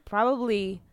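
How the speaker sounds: throat catching, choking slightly; choking a little. Real, not acted. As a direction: speak through a tickle in the throat. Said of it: "I'm choking a little".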